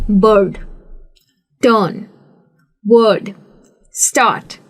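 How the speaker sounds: बर्ड with no r sound; British non-rhotic बर्ड; silent r. Shown as a demonstration. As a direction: say बर्ड, टर्न, वर्ड, स्टार्ट with the r dropped. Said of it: "आपको आर सुनाई नहीं देगा".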